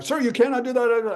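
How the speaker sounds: high-pitched mock official refusal; stern soldier. Voicing soldier refusing him.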